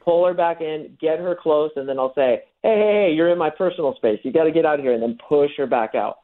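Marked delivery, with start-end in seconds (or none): 2.6-4.9 higher-pitched teasing objection; mock indignation, kept playful; playful mock protest. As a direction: pretend to shoo her away. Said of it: "like two kids on a schoolyard".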